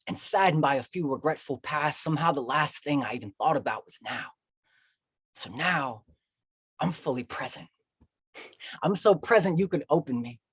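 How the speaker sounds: lively, rhythmic love poem; spoken-word poem. Acted. Poet to a sweetheart and audience, spoken-word. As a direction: build the lines like a slam poet.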